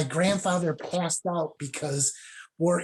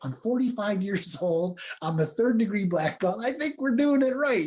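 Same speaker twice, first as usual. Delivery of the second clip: rising, higher in pitch, half-laughing protest; indignant retort; 4 semitones higher than usual. Retold or imitated. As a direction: play up the put-upon student, voice climbing. Retold indignant reply to old teacher.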